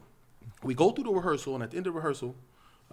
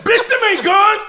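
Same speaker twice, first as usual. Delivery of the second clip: slow, high, loud retold retort; mock angry shout; 15 dB louder than usual. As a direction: shout down a rival, hammed-up. Acted quarrel, partner's angry retort.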